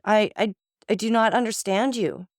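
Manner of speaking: halting, frightened, breaking voice; stammering in terror. Acted. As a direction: stumble over the words in fear. Terrified wife stammers denial.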